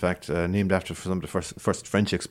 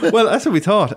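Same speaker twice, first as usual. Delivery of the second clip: laughing; 12 semitones higher, 6 dB louder than usual. Real, not acted. Laughs at the flying fish guess.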